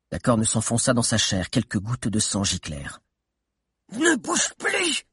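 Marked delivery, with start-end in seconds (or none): 3.9-5.0 very high, slow witch voice; witch shouting. Acted. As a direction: freeze her with a slow witch's shriek. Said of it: "cria la sorcière à la cape noire".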